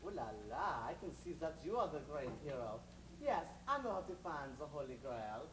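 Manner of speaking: hammed-up French stranger; French accent. Stranger switches to French accent to please the hero. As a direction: slide into a jokey French accent, "Ooh la la". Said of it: "This is not difficult to change".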